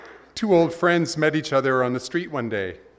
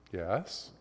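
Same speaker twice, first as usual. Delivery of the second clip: patient God; 4 semitones lower, 10 dB quieter than usual. Retold or imitated.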